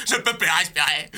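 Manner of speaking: full voice, desperate; voiced panic. Dubbing panicked lion.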